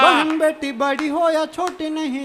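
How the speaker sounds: slow, measured recitation; poem recital. Acted. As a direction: declaim the verse gravely. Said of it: "चार पंक्तियां पढ़ता हूँ".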